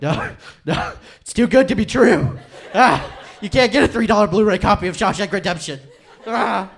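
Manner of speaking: high, loud, laughing no way; laughing disbelief. Retold or imitated. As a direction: scoff and laugh at a too-good deal. Acted disbelief at the offer.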